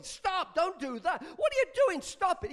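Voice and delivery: high, loud, frantic protest; quite angry. Acted. Drinker to the man pouring away his beer, angry shouting. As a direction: yell to make him stop. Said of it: "He got quite angry".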